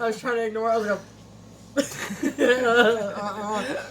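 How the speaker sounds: talking through giggles; laughing between the words. Real, not acted. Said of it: "I can't keep a straight face".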